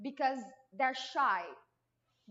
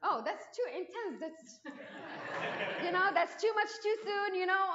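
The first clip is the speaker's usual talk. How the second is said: laughing; 6 semitones higher than usual. Retold or imitated. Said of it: "and I'm like".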